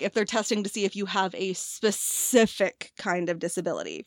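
usual speaking voice

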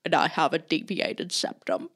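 lightly done mock cockney film-star voice; a loose, playful take on a London movie star; Michael Caine voice. To a friend, showing off the impression from Memorial Day, lightly mock cockney film star. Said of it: "you wanna hear my Michael Caine impression".

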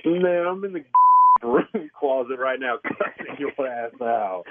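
talking low through clenched teeth; through gritted teeth. Real, not acted. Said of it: "He talking through his teeth".

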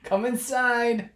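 high, slow creepy celebrity voice; sweet creepy coaxing. Pretend. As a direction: lure them in sweetly and slowly. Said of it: "with their voice saying things".

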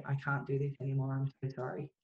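soft, hushed and broken, trailing away; a muted imitation of a despairing whisper; retold whisper. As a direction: quietly relay his last words as a faint whisper. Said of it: "a whisper just say".

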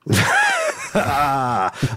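big surprised laugh, high. Real, not acted. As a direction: burst out laughing. Laughs at being volunteered.

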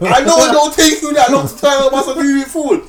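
exasperated retold rant. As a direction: throw it at him, laughing in disbelief. Retold yelling at old driver.

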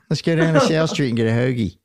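a light put-on Philadelphia accent, lightly voiced; Philly accent. Host repeats the hoagie line in a light Philly accent. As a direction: say it like a local Philly guy, only hinted. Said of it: "That's my, uh, Philly accent".

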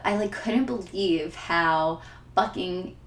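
fighting back real tears while speaking; on the edge of crying, pitch rising sharply; tearing up. Real, not acted. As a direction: voice climbing as tears come. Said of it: "I, like, wanna cry now talking about it".

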